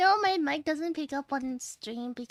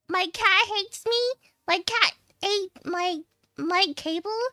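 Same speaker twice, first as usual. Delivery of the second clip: exasperated; 5 semitones higher, 6 dB louder than usual. Acted. Escalating complaint.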